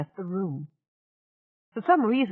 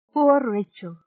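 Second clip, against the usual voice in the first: soothing; 4 semitones higher, 6 dB louder, slower than usual. Acted. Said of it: "he said soothingly".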